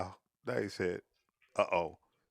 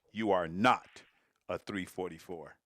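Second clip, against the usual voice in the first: a light take on a talk-show host reading out the verdict, louder on "not"; Maury Povich voice; 3 semitones lower, 4 dB louder than usual. Retold or imitated. Streamer mock-announces to the player that he's not a three forty-four, lightly hammed talk-show verdict. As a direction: announce the result like a daytime TV host, with mild drama. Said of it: "in my Maury P-, Povich voice".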